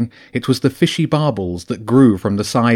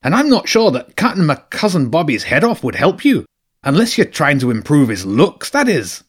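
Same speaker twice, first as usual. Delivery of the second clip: higher, sardonic rat voice; sly mocking rat; 5 semitones higher than usual. Rat teasing the hedgehog about his cousin, sly and higher. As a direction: tease the hedgehog, dry and sly. Zen mocks Hegel.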